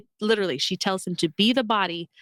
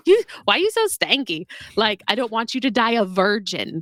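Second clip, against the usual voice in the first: teasing mom scold; 4 dB louder than usual. Retold or imitated. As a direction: playfully chew him out like a mom. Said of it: "And when he's like, "Listen".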